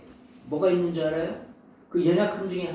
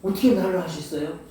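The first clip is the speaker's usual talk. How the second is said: astonished question. Retold or imitated. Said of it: "그러면 놀래요 또".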